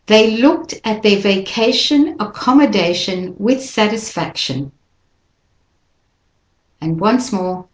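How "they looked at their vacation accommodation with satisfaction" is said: teacher reads in phrases, stress on "looked"; chunked phrasing. Shown as a demonstration. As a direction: read it in chunks for students. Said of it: "Try it with me".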